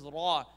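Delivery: "Raw" loud with a trilled R; rolled raw. Shown as a demonstration. Teacher showing the lion's letter, rolled "Raw". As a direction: roll the R of "Raw" into an open vowel. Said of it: "He rolls his raw".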